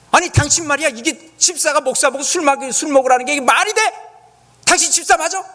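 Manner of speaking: mock-furious tirade at the deacon; indignant inner rant. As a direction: blast him in your head, full of righteous anger. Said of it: "제가 속으로 그랬습니다".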